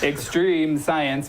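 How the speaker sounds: slow, stretched "extreme" for emphasis; drawn-out EXTREME. Shown as a demonstration. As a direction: say "extreme" long and drawn out, like a slogan. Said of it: "you have to say it like that".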